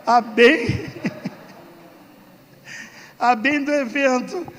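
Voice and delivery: slow, laughing through the punchline; amused slow chuckle. Real, not acted. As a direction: let the laugh break the line. Quoting self, laughing at it.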